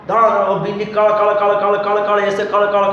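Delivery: rapid-fire crackling thunder on one level tone; imitated thunder crackle. Teacher telling a storm story to students, imitated thunder crackle. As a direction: rattle off the noise of lightning cracking. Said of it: "थर्राता है, ऐसे थर्राना हो गया".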